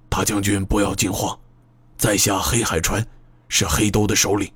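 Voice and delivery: low husky voice, a touch quick; 低沉沙哑. Acted. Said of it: "低沉却又沙哑的声音". (低沉沙哑的嗓音)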